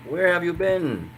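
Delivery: high, slow, questioning; asking where have you been. Shown as a demonstration. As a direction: ask it like you missed them. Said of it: "You wanna say to someone".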